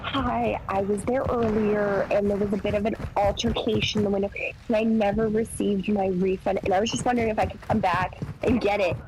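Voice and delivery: imitating a customer being super calm; measured, controlled retold politeness. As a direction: play it lightly calm and composed on the phone. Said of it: "super calm".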